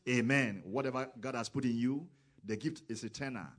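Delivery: loud preacher's call; full-voiced hallelujah; shouted amen. Real, not acted. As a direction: belt out each amen to the congregation. Shouted amens in sermon.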